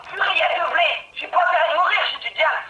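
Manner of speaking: loud, high panicky cry; panicked. Real, not acted. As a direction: panic about dying with diamonds. Fighting blazes, panicking.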